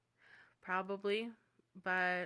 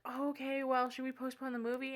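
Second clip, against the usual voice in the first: imitated date; 5 semitones higher than usual. Acting out disappointed date's question.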